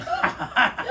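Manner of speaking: breathy burst of mock hysterics; re-enacted voiceless cackling fit; imitated hysterical laugh. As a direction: act out helpless laughter. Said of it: "I start laughing hysterically".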